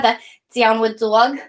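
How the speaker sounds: put-on light New York accent on "The downward dog", dog stretched to "dawg"; a playful touch of New York accent on "downward dog". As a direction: replay the cue with a hint of New York, slow and drawn out. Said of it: "when I flip into a New York accent".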